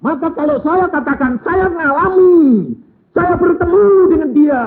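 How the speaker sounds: high and loud, bearing witness; fervent testimony. Acted. Preacher testifies about meeting the Lord, loud and fervent. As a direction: proclaim it with full conviction.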